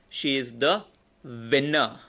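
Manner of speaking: "the" stressed, pause before "winner". Shown as a demonstration. Teacher demos stress on "the" before a pause. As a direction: mark "the" as the one in the room. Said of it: "Last way of doing it is".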